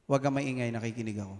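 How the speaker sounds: soft hush to a talkative seatmate in church; hushed rebuke. Pretend. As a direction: quietly tell the chatty neighbour to hush. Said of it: "Sabi mo sa kanya".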